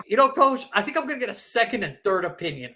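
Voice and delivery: high, loud mock player voice; whiny excuse to the coach. Injured star telling his coach he'll sit out.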